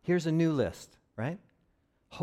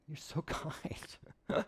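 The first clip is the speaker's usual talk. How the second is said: quiet awe; 4 semitones lower, 7 dB quieter than usual. Retold or imitated. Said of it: "being around that person was like".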